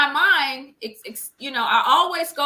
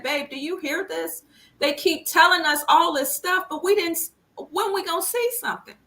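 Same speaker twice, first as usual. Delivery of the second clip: frustrated plea; 7 semitones higher than usual. Retold or imitated. Retelling pleas to her husband.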